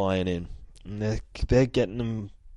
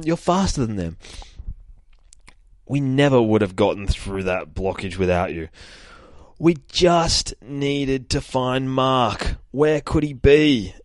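restrained yell; 5 semitones higher than usual. Acted. Calling encouragement to a flying companion, restrained yell. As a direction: raise it gently, as if calling over distance. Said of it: "she's yelling this out. I'm gonna be, not yell it out too much".

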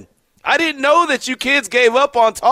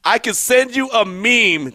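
slow, disbelieving echo of the line; mocking quote; slower than usual. Host mocking the co-host's meme offer, slow and incredulous. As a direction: repeat his words back in slow disbelief. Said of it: "Did I just hear this man say those words?".

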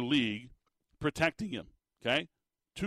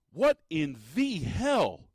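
slow, drawn-out disbelief; what in the hell, stretched out slowly; incredulous slow groan of disbelief; exasperated; much slower than usual. Real, not acted. Host exasperated at coaching blunder.

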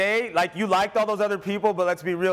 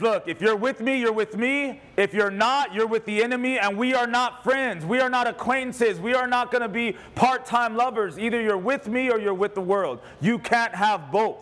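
higher-pitched, emphatic ultimatum; God; 3 semitones higher than usual. Acted. Preacher voicing God to a divided believer, emphatic. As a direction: lay down the terms, pitch held up. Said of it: "God says".

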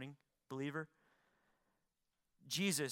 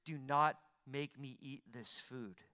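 mild pleading. Acted. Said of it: "He's begging".

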